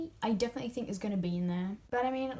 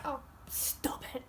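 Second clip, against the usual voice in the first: soft, slow, whispery gush; fond mock scold; 5 semitones higher, 5 dB quieter than usual. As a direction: tease as if it's too cute. Reacting to sweet moment.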